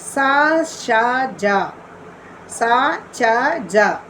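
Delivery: sa, sha, ja, sa, cha, ja, each sibilant sounded separately; hissing sibilants. Shown as a demonstration. Teacher showing viewers the sibilants in Macbeth's lines, separately sounded syllables. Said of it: "the hissing sounds".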